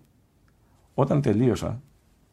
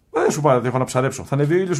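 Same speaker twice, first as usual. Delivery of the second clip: higher, impatient retold rebuff; mock impatience; 5 semitones higher, 4 dB louder than usual. Monk shooing away a visitor to go fishing, impatient. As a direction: brush off a pest, voice lifted.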